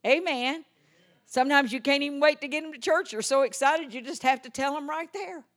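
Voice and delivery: usual speaking voice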